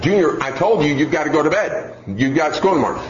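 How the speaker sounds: lightly voiced tense mom; mildly tense mother. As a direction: remind a dawdling child, a touch firmer. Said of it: "her voice has gotten increasingly tense each time".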